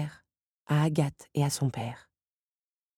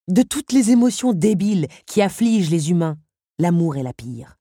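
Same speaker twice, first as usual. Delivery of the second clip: louder disdain, dropping at the end; scornful villain; 2 semitones higher, 4 dB louder than usual. Acted. Henri scorns love, disdainful. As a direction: dismiss love with disgust.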